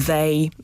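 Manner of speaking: "they" with a voiced th, slowly; English th sound. Shown as a demonstration. Expert shows the voiced English th slowly. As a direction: buzz the th in "they". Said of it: "dźwięków, zapisywanych po angielsku poprzez T H".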